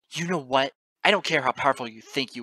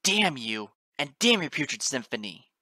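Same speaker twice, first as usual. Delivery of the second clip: loud, higher, furious damning rant; screamed tirade; 5 semitones higher, 12 dB louder than usual. A narrator's reading. Narrator damning the goddess into the chaos, screaming. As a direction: rage at them without letting up. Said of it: "I screamed into the chaos between firmaments".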